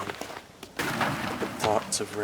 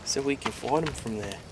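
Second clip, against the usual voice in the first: Richard's voice; 3 semitones higher, 3 dB louder than usual. Acted. Richard urging Sal to build better defenses, earnest. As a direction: urge your friend to build.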